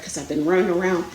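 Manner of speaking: breathless, rushing the words; winded, quick and puffing; out of breath. Real, not acted. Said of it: "Can you tell I'm out of breath?".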